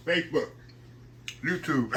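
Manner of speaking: talking through a mouthful of food; mouth full. Real, not acted. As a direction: say it while chewing, mouth full. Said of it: "I'm trying to talk with my mouth full".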